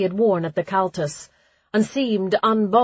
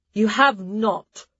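scoffing; 3 semitones higher, slower than usual. Acted. Darla scoffing, hulking.

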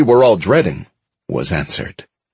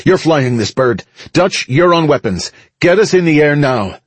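urgent, higher-pitched commander's orders; Veronica shouting; 6 semitones higher than usual. A narrator's reading. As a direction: fire off crew orders in a raised pitch. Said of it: "Veronica shouted over the comm".

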